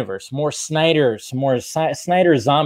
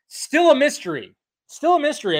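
mock mysterious; 12 semitones higher than usual. Repeated mysterious line.

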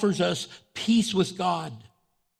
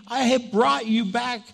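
voicing God; 5 semitones higher than usual. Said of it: "So God is saying".

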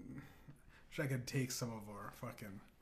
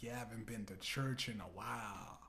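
put-on lightly drawn southern accent for God; God with a mild southern accent; 5 dB quieter than usual. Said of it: "God has a southern accent".

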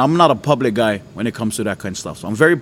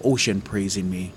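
small voice; 4 semitones lower, 8 dB quieter than usual. Retold or imitated. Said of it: "I heard the Lord say".

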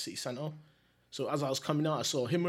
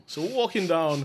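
slow, louder storyteller delivery; movie narrator; 3 semitones higher, 9 dB louder than usual. Real, not acted. Storyteller setting up the walk for the host, like a movie. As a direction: draw it out like a film voiceover. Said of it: "You sound like a movie".

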